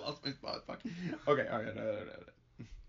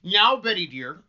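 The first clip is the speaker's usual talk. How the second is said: higher, louder stage address; coaxing minister; 5 semitones higher, 10 dB louder, slower than usual. Acted. Minister rouses a sick girl, coaxing. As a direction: call to the child by name, coaxing.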